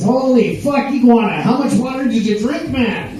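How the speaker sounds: mock amazement at who turned up; amazed punchline. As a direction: deliver it as a stunned joke character. Bear's amazed punchline at the alligator.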